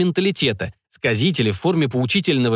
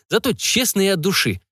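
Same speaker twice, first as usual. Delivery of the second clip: plain reading voice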